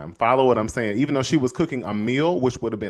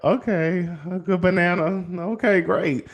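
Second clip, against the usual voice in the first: mock enthusiasm; 6 semitones higher than usual. Boy answering mom about banana.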